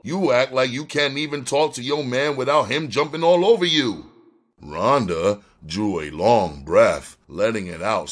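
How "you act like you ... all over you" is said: higher-pitched, exasperated scolding; mild narrated yell. A narrator's reading. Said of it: "Donna yelled".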